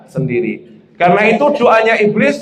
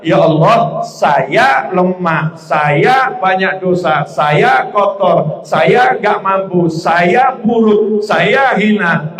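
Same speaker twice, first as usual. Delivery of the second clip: humble prayer; much slower than usual. Shown as a demonstration. Example prayer of humility.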